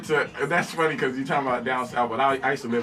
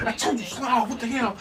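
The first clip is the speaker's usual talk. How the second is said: mock screaming; 7 semitones higher than usual. Everybody in the car yells at the driver, mock high scream. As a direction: mimic a frightened scream at a higher pitch. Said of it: "everybody screaming like".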